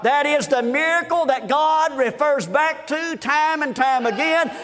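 driving revival preaching, building in pitch; fervent preaching. Real, not acted. Preacher to congregation on the Red Sea miracle, fervent preaching. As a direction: preach it with rising fervour.

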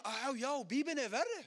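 high, loud and laughing; laughing realization. Retold or imitated. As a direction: burst out laughing at the thought. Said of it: "jag börjar tänka". (skrattande insikt, högt och ljust)

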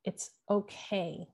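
a quiet, tender promise of safety, slowly; gentle reassurance. Retold or imitated. Jesus comforting her as she cries, soft and slow. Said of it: "the arms of Jesus saying, like".

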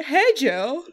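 lightly put-on student voice; fake voice. Shown as a demonstration. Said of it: "Putting on my fake voice".

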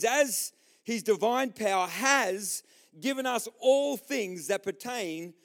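measured, emphatic Bible reading; scripture reading. Shown as a demonstration. Preacher reading to the church, declamatory. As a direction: read it out in a slow, continuous phrase.

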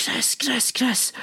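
very high, squeaky repeated calling; imitated frantic partner. Partner running after him downstairs, imitated high-pitched calling. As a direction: mimic a partner calling out in alarm.

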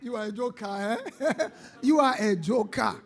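amused jeer through chuckles; laughing ridicule. Real, not acted. Preacher teases a surprised soldier as joker, laughing. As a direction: tease him between laughs.

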